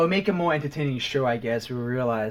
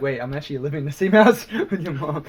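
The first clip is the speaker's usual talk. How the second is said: laughing retold thought; 3 semitones higher, 6 dB louder, faster than usual. Retells own thought, laughing.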